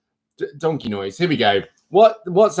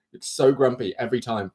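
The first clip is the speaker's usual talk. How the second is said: an unvoiced, softer whispered aside; 4 semitones lower, 6 dB quieter than usual. Real, not acted. Aside to viewers about the grumpy cat, whispered. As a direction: whisper it so the cat won't hear.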